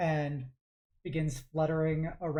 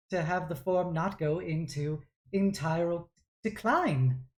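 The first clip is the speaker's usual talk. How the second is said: lightly voiced formal servant; apologetic attendant; 3 semitones higher than usual. Attendant warning Lord Artificer of collapse, deferential. Game master plays the attendant.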